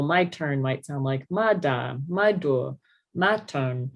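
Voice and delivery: "my turn" garbled a new way each time, as "ma da", "my do"; inconsistent errors. Shown as a demonstration. Clinician showing how a child's "my turn" varies, inconsistent errors. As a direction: misarticulate "my turn" with shifting consonants and vowels, evenly paced. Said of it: "inconsistent with their errors. So for example".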